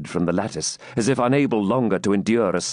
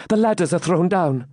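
higher-pitched, mild horror; a touch of dread; shuddering reply; 9 semitones higher than usual. A narrator's reading. Maiden reports falling ladders, shuddering slightly.

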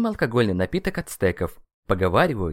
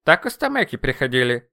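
louder, higher defensive protest; raised-voice excuse; making excuses; 4 semitones higher, 6 dB louder than usual. A narrator's reading. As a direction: justify yourself hurriedly to the boss. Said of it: "начал оправдываться соратник".

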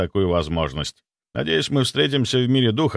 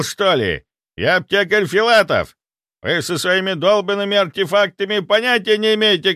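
loud, high bullying rant; furious apothecary grandfather; angry threat; 10 semitones higher, 4 dB louder than usual. A narrator's reading. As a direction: shove past him with threats.

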